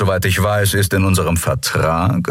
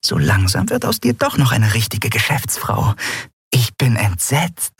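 high, mock-shocked teasing; teasing friend; 5 semitones higher than usual. A narrator's reading. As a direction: tease her with fake horror. Nelen teases her friend.

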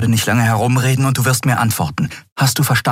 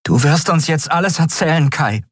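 cold threat; 9 semitones higher than usual. A narrator's reading. Endriel threatens Kai.

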